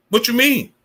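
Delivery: high-pitched, incredulous challenge; incredulous retort. Acted. Streamer answering the platform's feigned ignorance, incredulous. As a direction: throw the excuse back in disbelief, pitch jumping up.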